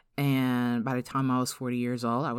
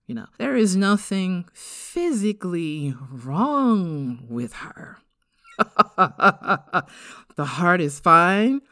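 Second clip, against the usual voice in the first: lightly higher doctor voice, slow and measured; imitating the doctor; 4 semitones higher, 5 dB louder, slower than usual. Doctor reassuring the mother after tests, lightly imitated. Doctor explaining to her mom.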